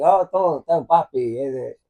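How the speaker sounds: mock Spanish papi talk; fake Spanish accent. Dad fooling his baby daughter, in a fake Spanish accent. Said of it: "make her think that I was Spanish".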